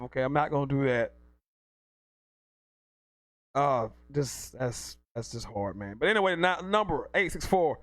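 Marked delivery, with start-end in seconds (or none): 3.5-6.0 much softer, choked-up words; fighting off tears, barely getting it out; holding back tears. Real, not acted. Host moved by Nick Bosa's injury, holding back tears. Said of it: "I'm not gonna cry".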